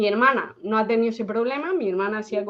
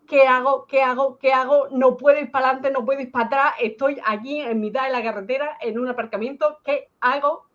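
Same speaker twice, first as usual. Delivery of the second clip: panicked plea; 3 semitones higher, faster than usual. Retold or imitated. Stranded driver calls her boyfriend crying, panicked. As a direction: plead down the phone, stuck and scared.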